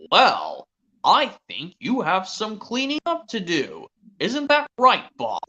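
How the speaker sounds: lightly voiced stern farmer, slow; a hint of a scolding farmer; Farmer Pickles. Farmer tells Spud to clean up, mildly stern. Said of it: "impression of Farmer Pickles".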